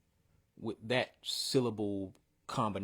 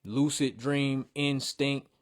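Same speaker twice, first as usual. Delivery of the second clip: slow, stressed "Lucid dream instinct"; drawn out to show syllables; slow emphasis; 3 semitones higher, 3 dB louder, slower than usual. Shown as a demonstration. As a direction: spell out the rhythm slowly.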